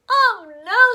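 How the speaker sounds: pinched nose voice; holding nose. Acted. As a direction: talk with nose held shut. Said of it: "They all sounded as if they had colds".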